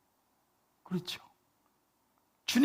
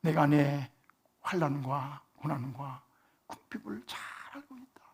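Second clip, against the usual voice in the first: soft, slow, sorrowful whisper; sad whisper; 3 semitones lower, 5 dB quieter, slower than usual. Shown as a demonstration. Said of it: "슬픈 표정을 지으면서". (슬픈 얼굴로 속삭이듯)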